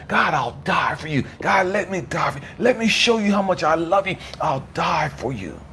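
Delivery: high-pitched, fervent plea to God; retold desperate prayer, pleading; crying out. Believer begging God to let him die for Him, crying out. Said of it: "I'm crying out to God".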